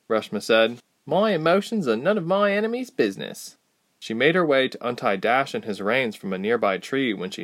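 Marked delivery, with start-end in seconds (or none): 1.1-3.6 Reshma's voice. Acted. Reshma voiced, proud line.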